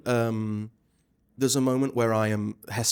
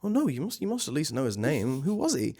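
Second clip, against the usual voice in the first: lightly voiced innocent question, higher on "no" and "Who"; innocent asking; 3 semitones higher than usual. Shown as a demonstration. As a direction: ask sweetly, all innocence. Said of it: "really innocently asking".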